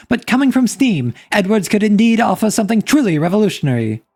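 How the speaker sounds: put-on old-timey newspaper reporter voice; news reporter read. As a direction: announce it like a period news reporter. Reads a mock news report.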